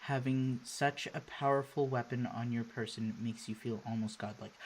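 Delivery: low-key, measured narrator reading; story narration. A narrator's reading. Player reading game narration aloud, measured storytelling. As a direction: read the scene aloud evenly and quietly.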